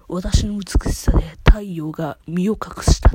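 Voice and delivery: slow, loud Takarazuka-style leading man; dashing male-role line. Retold or imitated. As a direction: declaim it like a stage heroine in a man's role. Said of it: "とか言ってね".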